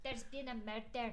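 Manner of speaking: slow, put-on Scottish accent with rolled r. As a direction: draw out MURDER in a Scottish accent. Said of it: "Can you do a Scottish accent".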